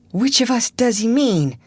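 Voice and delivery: breathless scared whisper; frightened gasp. A narrator's reading. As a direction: gasp it in terror. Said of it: "gasped Huckleberry".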